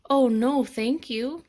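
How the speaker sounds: put-on eager little girl. A narrator's reading. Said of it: "Lisa answered".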